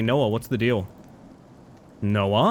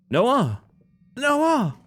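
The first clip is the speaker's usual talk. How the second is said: calling out; 11 semitones higher than usual. Acted. Calling out to wake Noah.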